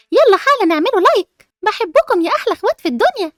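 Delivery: loud, upbeat YouTuber greeting to subscribers; vlogger intro. Acted. Girl greeting her channel's viewers, bright vlogger pitch. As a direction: hype up the viewers, asking for likes.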